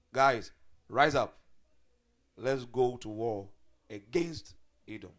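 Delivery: loud, slow call to arms; rallying call. Retold or imitated. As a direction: rouse the people to battle. Prophet rallying the people to war.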